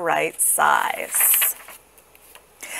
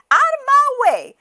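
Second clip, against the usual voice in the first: very high goose command; bossy cry; 4 dB louder than usual. A narrator's reading. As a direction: order them aside in a high holler. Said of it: "cried the goose".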